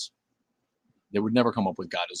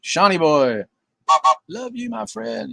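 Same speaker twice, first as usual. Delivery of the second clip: excited greeting; 12 semitones higher, 6 dB louder, slower than usual. Real, not acted. Greeting a chat friend.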